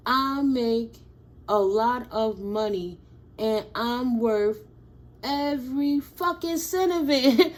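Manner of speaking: loud, proud affirmation; loud declaration, building; money affirmation. Shown as a demonstration. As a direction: claim it out loud. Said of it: "affirmation mantra".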